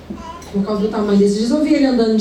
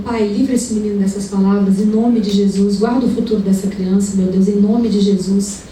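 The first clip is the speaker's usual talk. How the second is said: lower, murmured intercession under her breath; retold quiet prayer; 4 semitones lower than usual. The preacher praying for the neighbour's son at the sink, low and murmured. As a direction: pray under your breath for the boy. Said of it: "E eu só orando".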